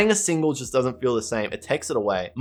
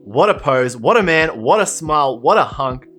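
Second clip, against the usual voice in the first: gushing; 5 dB louder than usual. Real, not acted. Gushing over the card.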